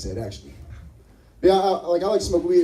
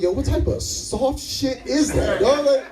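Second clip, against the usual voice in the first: mock scolding; 2 semitones higher, slower than usual. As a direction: tease him hard. Comic mocks roommate.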